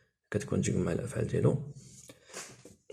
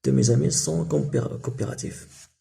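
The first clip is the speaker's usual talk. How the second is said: slowed, louder careful answer; slow model sentence; 3 semitones higher, 4 dB louder, much slower than usual. Shown as a demonstration. Teacher slowly models the answer for pupils. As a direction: lay out each word for the class. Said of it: "je ne sais pas".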